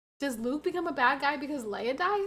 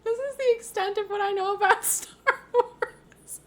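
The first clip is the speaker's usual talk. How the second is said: breathy laughing whisper; whispered giggle; 9 semitones higher, 6 dB louder than usual. Real, not acted.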